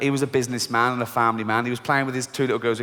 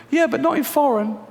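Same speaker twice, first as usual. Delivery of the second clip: high, whiny retort; high scared voice; 10 semitones higher than usual. Acted. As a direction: pipe up defensively. Fearful voice.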